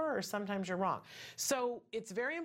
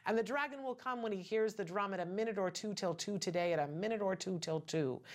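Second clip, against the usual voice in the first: tongue twister. Shown as a demonstration. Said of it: "That's my favorite one".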